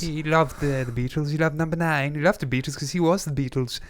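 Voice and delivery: put-on posh English, plummy boxer-meets-actor voice; theatrical posh English accent; posh English gentleman accent. Shown as a demonstration. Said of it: "in this posh English gentleman a-, accent".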